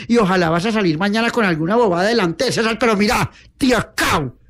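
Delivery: acted exasperated telling-off; angry scolding. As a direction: rattle off insults at a hapless sister. Elder sister scolds and insults Nieves.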